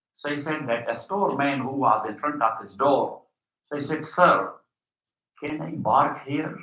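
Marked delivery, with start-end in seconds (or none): 4.1-6.6 park said as bark; Arab accent, B for P. Retold or imitated. Professor asking a store man to park, park turned into bark. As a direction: ask politely, saying park with a B. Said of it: "Instead of park".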